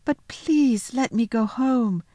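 put-on high, slow little-girl plea; pleading. Lucy asking the faun to let her go home, pleading. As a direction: draw out a small, polite plea.

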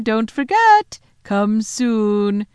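high, loud farewell call. A narrator's reading. The Queen waving and calling back to Edmund, high and loud. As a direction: shout it after him from far away. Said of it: "calling out".

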